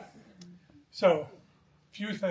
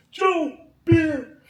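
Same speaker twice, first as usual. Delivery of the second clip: panicked hiss of alarm; 12 semitones higher, 11 dB louder than usual. Retold or imitated. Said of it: "He turns to me and goes".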